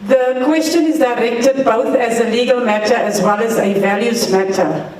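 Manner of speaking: speaking up so the room hears; to someone hard of hearing. Real, not acted. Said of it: "I'm going to speak louder".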